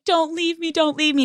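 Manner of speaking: high, begging don't leave me; whiny plea to a boyfriend; pleading not to be dumped, mock crying. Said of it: "I'm crying".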